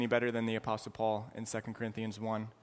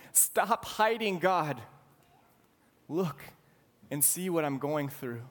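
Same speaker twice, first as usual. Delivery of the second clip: voicing David's anguished plea, a bit higher; pleading prayer; 3 semitones higher than usual. Preacher voicing David begging God to look at him, pleading. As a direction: cry out to God as if drowning.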